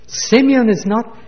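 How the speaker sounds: a father's cry over a lost son; grieving cry. Acted. Preacher voicing Jacob to his sons, a grieving cry.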